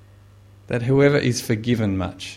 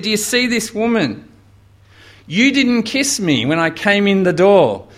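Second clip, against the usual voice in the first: voicing Jesus; 7 semitones higher, 4 dB louder than usual. Preacher voicing Jesus' rebuke.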